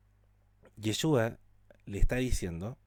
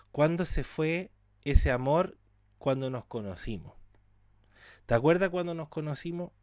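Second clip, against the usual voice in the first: pleading lover; 4 semitones higher than usual. Acted. Preacher as hurt spouse asking where the love went, pleading. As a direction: voice lifted high, asking why love faded. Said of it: "lover pleading, pitch up".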